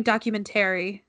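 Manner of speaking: "documentary" ending in a full "TERRY"; odd pronunciation. Retold or imitated. Friend mimics a classmate's word, odd pronunciation. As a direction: say "documentary" with the tail as a clear "tary". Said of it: "kept pronouncing documentary really weird".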